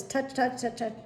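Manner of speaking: touch, touch said as quick little taps; light tapping words. Shown as a demonstration. Showing the doctor's light taps, said as quick little touches. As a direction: tap out each touch, touch. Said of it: "two little touches".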